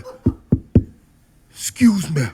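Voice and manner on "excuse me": quivering lip. Shown as a demonstration. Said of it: "I would quiver the lip".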